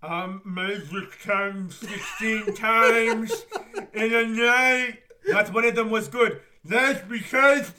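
slow, loud, cracking up; laughing through the quote. Retold or imitated. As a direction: barely get it out for laughing. Quoting the film, laughing.

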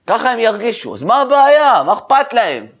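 high, agitated rhetorical challenge; acted impassioned protest. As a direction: argue it with the voice pitched high. Acting the rabbi's ecstatic protest. (מחאה נלהבת בקול גבוה)

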